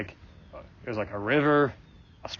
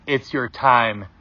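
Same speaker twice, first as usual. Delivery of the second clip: slow, firm voice of a wise woman; lightly voiced authority, words drawn out; authoritative loving woman; 5 dB louder, much slower than usual. Mysterious woman speaks into the listener's ear, slow and authoritative. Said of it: "It was authoritative, but in a very loving way".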